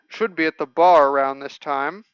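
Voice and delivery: townsperson with a Texan twang; light Texan accent on an NPC. Acted. Local tells travellers where to look, in a Texan accent. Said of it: "these people need Texan accents".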